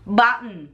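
BUTTON with the T swallowed; American BUTTON. Shown as a demonstration. Wife demonstrates for husband, BUTTON with swallowed T. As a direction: say BUTTON as "buh'n". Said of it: "They say it button".

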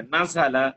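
নাজালা with a sibilant middle consonant; say-along pronunciation model. Shown as a demonstration. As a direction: lead the class in নাজালা, z-like sound, no d. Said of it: "আমার সাথে একটু বলুন সবাই".

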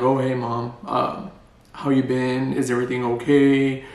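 a hint of butch son talking to Mom; a touch of a manly voice on the phone to Mom. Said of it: "I do this manly voice".

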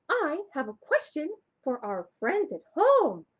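eager puppet with a question; puppet Shimmer. Acted. Shimmer the puppet asking the kids at home, eagerly.

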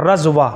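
رضوہ as "raz-wa" with Zaad; رضوہ clearly as "raz-wa"; correct pronunciation. Shown as a demonstration. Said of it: "یا کے اوپر کھڑا زبر ہے".

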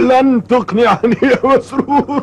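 high, slow, laughing tease; laughing off the boy's bargain; teasing laugh. Acted. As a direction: chuckle the words out playfully.

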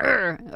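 short mock-aggressive growl; brief aggressive "urgh". Shown as a demonstration. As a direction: growl it out in demonstration. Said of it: "you have to be very aggressive".

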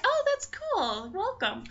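high, drawn-out friendly cooing; retold friendly welcome. Sisters greeting a newcomer, sweetly welcoming. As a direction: coo a welcome in mock-sweet tones.

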